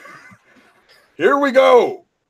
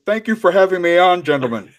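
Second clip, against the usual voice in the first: bad British accent; faster than usual. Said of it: "My British accent is shit".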